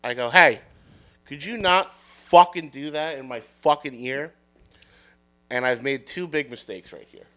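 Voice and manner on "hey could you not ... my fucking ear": irritated retort, hard "Hey" up front; annoyed confrontation. Retold or imitated. Fed-up bar patron confronting the barker, annoyed. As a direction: push out a fed-up complaint.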